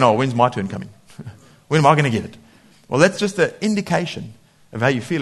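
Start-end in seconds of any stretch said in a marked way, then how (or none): 0.0-2.4 envious grumble. Retold or imitated. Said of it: "there's others going".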